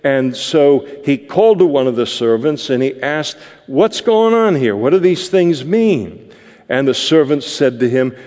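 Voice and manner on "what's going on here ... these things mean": put-on puzzled older son. Older son asks servant.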